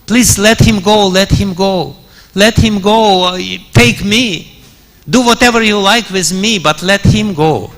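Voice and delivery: mild tearful begging as Sita; desperate pleading. Retold or imitated. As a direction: plead with the demon, pressing each let him go. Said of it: "she started pleading to this demon".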